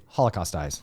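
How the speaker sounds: low, soft, solemn delivery; deep dramatic voice. Shown as a demonstration. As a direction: drop it down like a movie trailer.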